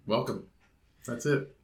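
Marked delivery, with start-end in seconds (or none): 0.1-0.4 low, hushed solemn welcome; cult leader. Pretend. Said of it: "You said that like a cult leader almost".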